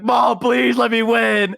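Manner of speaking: put-on high, drawn-out childish begging; mock crying plea. Retelling begging mom at Mario Party, high tearful whine. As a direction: plead like a kid about to cry. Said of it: "I would just start crying".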